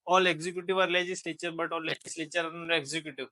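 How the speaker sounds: very slow, each word spaced out; slow teacher dictation to students. Shown as a demonstration. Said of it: "teacher dictating key line".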